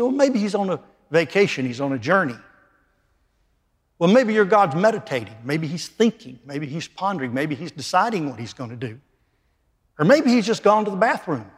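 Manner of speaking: sarcastic mock suggestions; taunting. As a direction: jeer at the silent god. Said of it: "He taunted him".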